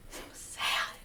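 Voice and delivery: hushed, whispered sympathy; sad whisper. Real, not acted. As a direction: whisper it as a sorrowful aside. Reacting to the sad passage just read.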